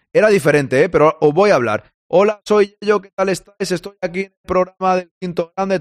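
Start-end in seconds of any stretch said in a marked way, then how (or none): 2.1-5.8 higher, imitating a stiff robot voice. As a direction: do a toy robot greeting, higher. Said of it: "entra como un robot".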